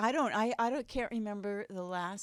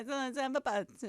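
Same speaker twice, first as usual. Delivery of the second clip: mock Italian accent; 5 semitones higher, much faster than usual. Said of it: "Italian accent".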